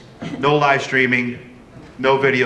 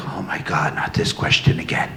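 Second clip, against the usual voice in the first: low, softer imitation of a fed-up guest; mock weariness; 9 semitones lower, 4 dB quieter than usual. Host voices a guest tired of a question, mock weary. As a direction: groan it lightly, tired of being asked. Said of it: "are you tired of answering".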